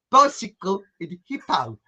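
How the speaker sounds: "bicycle" and "hippo" in mock Rhodesian; Rhodesian accent. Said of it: "something about that sort of word".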